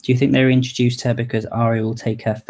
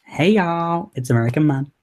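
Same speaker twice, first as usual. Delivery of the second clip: Southern vlog intro, higher, y'all dragged; drawled Southern intro; 4 semitones higher than usual. Pretend. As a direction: ham up a Southern YouTuber greeting. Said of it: "drag out y'all".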